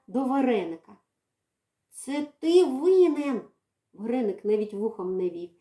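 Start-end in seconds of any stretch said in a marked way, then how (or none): 1.9-3.4 accusing cat. Acted.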